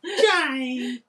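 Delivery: high, loud soap opera call. Retold or imitated. Imitating Neighbours call.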